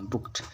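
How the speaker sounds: बुक्ड ending in a voiceless T; correct past ending. Shown as a demonstration. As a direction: say बुक्ड as "bookt". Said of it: "बुक्ड पढ़ेंगे". (बुक्ड के अंत में ट की आवाज़)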